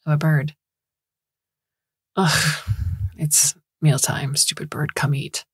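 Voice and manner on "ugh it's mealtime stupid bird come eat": mocking flippant. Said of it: "in this sort of mocking, flippant tone".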